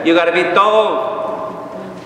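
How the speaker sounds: slow, drawn "You gotta be tov"; mock self-righteous. Preacher mocking what people claim, slow and smug. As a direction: parody the smug saying, slowly. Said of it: "So what do we say?".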